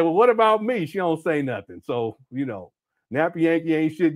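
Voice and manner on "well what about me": mock jealous. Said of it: "I said".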